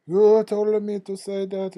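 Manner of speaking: high, loud, put-on furious voice; angry accusation. Coworker returns furious about the prank: high loud accusing voice. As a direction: shout it back like a wronged, outraged coworker. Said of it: "come back a day later pissed off".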